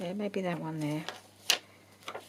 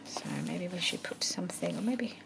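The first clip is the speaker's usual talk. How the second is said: whispering; 6 dB quieter than usual. Real, not acted. Quiet crafting commentary.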